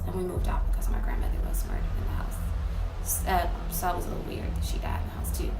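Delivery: quick, breathy whisper of a dark secret; hushed confession. Real, not acted. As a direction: drop to a fast whisper. Confiding grandmother's murder in the house.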